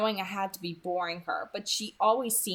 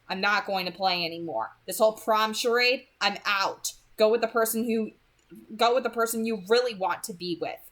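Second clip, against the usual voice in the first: louder, rising indignant complaint; acted anger; 3 semitones higher, 4 dB louder than usual. Beau publicly accusing Taylor, louder hurt anger. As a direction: play the wounded, furious boy. Staged breakup rant ends.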